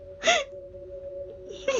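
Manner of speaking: high wordless crying whine; frustrated whine. Real, not acted. Frustrated at failing in game.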